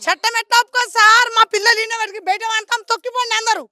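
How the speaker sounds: loud, heated retort; indignant protest. Real, not acted. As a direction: argue back loudly, outraged. Protests back at interviewer's legal objection. (ఆగ్రహంతో గట్టిగా నిలదీస్తూ)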